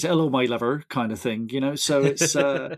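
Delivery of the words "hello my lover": put-on Bristol accent. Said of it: "the Bristol accent is".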